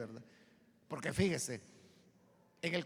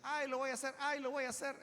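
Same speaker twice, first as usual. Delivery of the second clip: putting it off; 4 semitones higher, 4 dB quieter than usual. Acted. Voicing habitual procrastinators.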